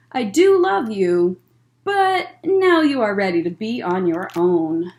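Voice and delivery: gentle storytime read-aloud; picture book voice for kids; reading to children. Acted.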